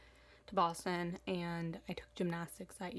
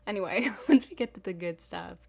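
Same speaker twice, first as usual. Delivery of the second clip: louder, laughing, perked-up restart; enthusiastic; 10 dB louder than usual. Shown as a demonstration. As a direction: burst back in with energy. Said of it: "I'll be a lot more enthusiastic".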